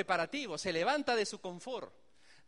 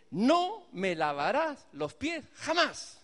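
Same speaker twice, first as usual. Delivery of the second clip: slow, louder, defiant refusal of the Master; 4 semitones higher, 5 dB louder, slower than usual. Acted. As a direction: draw each word out in bold rebellion. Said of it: "qué retador, qué rebelde".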